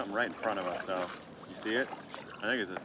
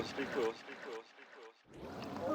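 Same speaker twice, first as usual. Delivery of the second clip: wildlife watching whisper; 10 dB quieter than usual. Real, not acted. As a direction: hush down near the animals. Calming near otters, hushed.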